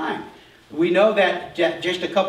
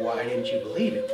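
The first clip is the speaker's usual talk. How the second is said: mock challenge; 6 dB quieter than usual. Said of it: "then he's gonna say".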